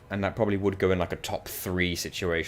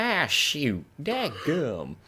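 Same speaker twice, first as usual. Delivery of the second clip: high, hammed-up redneck drawl; exaggerated redneck exclamation, pitched up; redneck impression; 7 semitones higher, much slower than usual. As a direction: put on a cartoonish redneck accent. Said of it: "He's very redneck".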